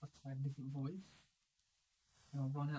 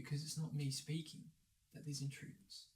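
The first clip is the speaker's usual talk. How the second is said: soft, conspiratorial whisper to a companion; 6 dB quieter than usual. Acted. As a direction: drop into a hushed whisper. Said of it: "Why are you whispering to him?".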